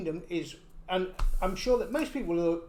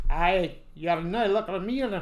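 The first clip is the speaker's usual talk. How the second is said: Irish accent. Shown as a demonstration.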